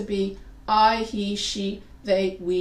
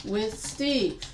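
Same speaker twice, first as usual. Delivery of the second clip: slow wrong example; slower than usual. Shown as a demonstration. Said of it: "what's wrong with these sentences".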